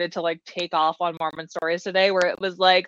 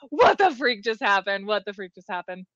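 stunned disbelief. Retold or imitated. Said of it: "I'm just like".

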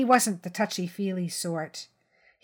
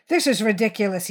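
mild shout; 3 semitones higher, 6 dB louder, faster than usual. Acted. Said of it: "he shouted".

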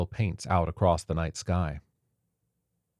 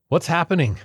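higher, louder panicked shout; shouted question; 11 semitones higher, 6 dB louder than usual. A narrator's reading. Cellist shouting in panic during the attack. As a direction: yell it in panic. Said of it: "the cellist shouted".

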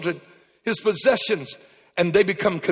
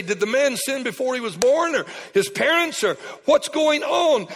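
pitched-up puzzled questions; rising questions; 5 semitones higher than usual. Retold or imitated. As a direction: voice the disciples' confused rush of questions, rising to a shout. Disciples voiced questioning Jesus.

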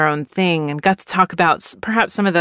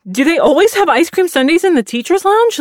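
amazed question; 10 semitones higher, 5 dB louder than usual. Retold or imitated. Surprised by sundaes in lounge.

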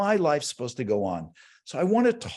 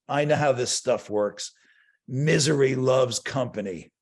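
a lightly voiced dismissive husband, "Misery" leaned on; cynical husband; 5 semitones lower than usual. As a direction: shrug off the workshop with "Misery loves company". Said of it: "And he said".

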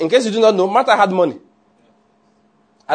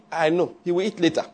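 dismissive, quiet; 6 dB quieter than usual. Acted. Mary dismissing Martha calmly.

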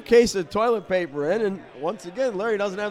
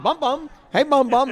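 teasing call; 7 semitones higher, 3 dB louder than usual. Retold or imitated. Burke teasing son nickname.

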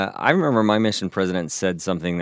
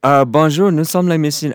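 flustered greeting; 7 semitones higher, 4 dB louder than usual. Retold or imitated. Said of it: "a little flustered over".

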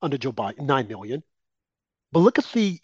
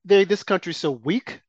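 mock taunting cackle, higher; sneering imitation laugh then taunt; 3 semitones higher than usual. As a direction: imitate gloating foreign leaders laughing. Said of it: "they're laughing at us and they're saying".

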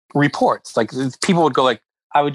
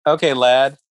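loud, slow sarcastic service voice; mock cheerful; 4 dB louder, slower than usual. Barista taunting a grumpy celebrity, sarcastic. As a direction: drag out the lad, all fake politeness. Mocking customer with fake cheer.

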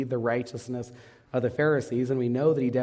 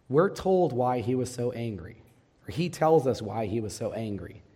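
ordinary delivery

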